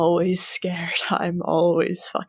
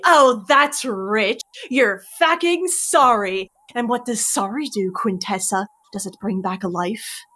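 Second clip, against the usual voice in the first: Curling, scornful mentor. Acted. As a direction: drag out the contempt, mocking every word. GM voices Curling mocking her excuses.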